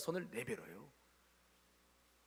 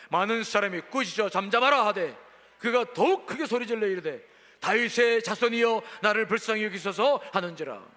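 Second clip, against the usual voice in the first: scripture reading; 2 semitones higher, 6 dB louder than usual. Real, not acted. 사십팔 절 말씀 있습니다.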